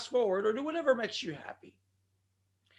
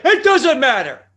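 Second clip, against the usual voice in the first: slow, much louder booming wrestler catchphrase; The Rock impression; 5 semitones higher, 14 dB louder than usual. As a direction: roar it slowly like a wrestling star. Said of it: "as The Rock would say".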